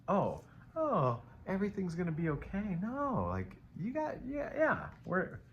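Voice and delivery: jokey high voice, teasing the viewer; silly put-on voice. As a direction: pitch way up into a goofy sing-song. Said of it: "I don't know why I'm talking like that".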